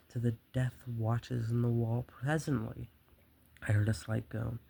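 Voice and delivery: dramatic, measured storyteller's read; story narration. A narrator's reading. Murderer confesses his careful nights to the listener, story narration. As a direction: read the tale with relish.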